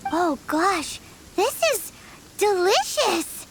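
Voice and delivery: slow, drawn-out delicious; savoring delight. Acted. Paimon tasting the snack, delighted slowly. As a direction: savor the taste.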